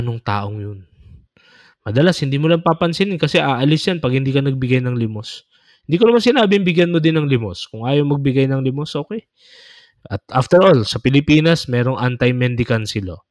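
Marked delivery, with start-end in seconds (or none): 1.9-13.2 heated rush. Real, not acted. Rebuking indifference to beggars.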